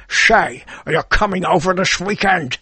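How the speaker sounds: lightly done Scottish film star inviting you over; Sean Connery. Retold or imitated. Imagined Uncle Sean calls nephew about the weekend, light Connery voice. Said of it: "Imagine if Sean Connery is my uncle".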